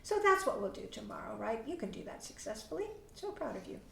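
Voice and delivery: soft, hushed praise; praising parent. Shown as a demonstration. Parent praising child after role play, soft and proud. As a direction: gently tell the child he did well. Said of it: "you're just gonna go".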